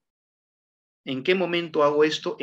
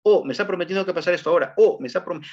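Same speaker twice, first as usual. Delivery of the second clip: excited viewer; faster than usual. Retold or imitated. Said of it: "tener expectativa siempre".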